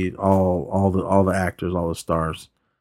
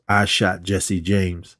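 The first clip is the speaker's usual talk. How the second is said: smirking; much slower than usual. Retold or imitated. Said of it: "laughs or does a smirk".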